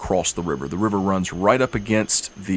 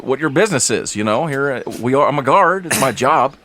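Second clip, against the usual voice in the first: loud, high huffy guard, laughing; offended guard; 5 semitones higher, 4 dB louder than usual. Acted. Guard scolding the mocking travelers, loud and huffy. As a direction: scold them like an offended gatekeeper.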